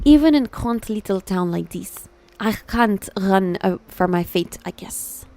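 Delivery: attempted French accent, fading out. Streamer voicing Hugo in a little town, tentative French accent. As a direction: try a French accent, trailing away softly. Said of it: "इसको French करना ना".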